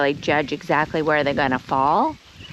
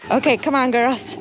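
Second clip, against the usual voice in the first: pet-calling voice; 7 semitones higher than usual. Real, not acted. Calling the sheep.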